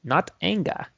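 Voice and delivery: slow, quiet martial arts master; a hint of a stern kung fu teacher; Bruce Lee impression. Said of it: "this makes me into character".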